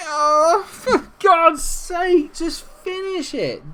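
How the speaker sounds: high, slow, wailing exasperation; anguished frustration. Real, not acted. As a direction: wail at the wasted chance. Striker misses another chance.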